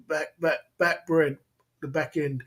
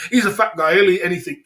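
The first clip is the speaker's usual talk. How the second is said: mocking server voice; 3 semitones higher, 8 dB louder than usual. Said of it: "giving me some bloody leg".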